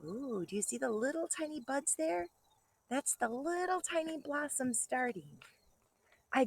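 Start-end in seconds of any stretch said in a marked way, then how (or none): none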